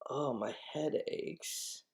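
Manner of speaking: fake headache. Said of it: "Clue, hint, hint".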